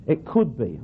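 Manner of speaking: "could" leaned on, conceding a possibility; weight on "could", falling away after; stress on COULD. Real, not acted. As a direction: stress "could" to keep it tentative. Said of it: "I'm only saying could be".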